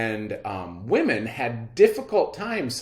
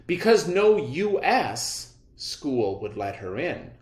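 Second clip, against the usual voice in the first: clear, measured read-aloud for students; reading aloud to class. Acted. Teacher reads the biography aloud.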